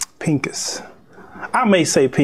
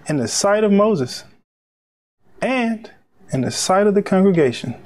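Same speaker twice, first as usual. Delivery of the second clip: measured reading in separate phrases; deliberate preacher's Bible narration; scripture reading. Acted. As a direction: read it out phrase by phrase, with weighty pauses. Reads scripture aloud.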